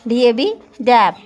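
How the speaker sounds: slow "D A B, dab" with each letter sounded out; spelled out and sounded. Shown as a demonstration. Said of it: "the right way is ab". (धीरे-धीरे अक्षर बोलकर "dab")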